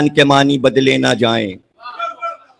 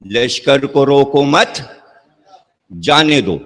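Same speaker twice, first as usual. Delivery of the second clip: slow, pausing after "روکو مت", then "جانے دو"; group "روکو مت" as one phrase, pause, then "جانے دو"; slower than usual. Shown as a demonstration. Preacher explaining the king's order to send the army, phrase split after مت. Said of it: "لہجے سے پتہ چلے گا".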